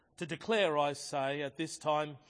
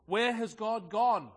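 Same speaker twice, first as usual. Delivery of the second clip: slow, higher and louder cry of where has God gone; anguished cry; 5 semitones higher, 6 dB louder, slower than usual. A narrator's reading. Madman confronting the mocking crowd, slow loud cry. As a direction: drag it out as a desperate question. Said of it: "he cried".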